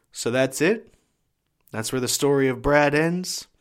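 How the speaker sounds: retold tough-love confrontation with rising ends; challenging. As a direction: question him pointedly, lifting each ending. Stepfather challenges him to keep going.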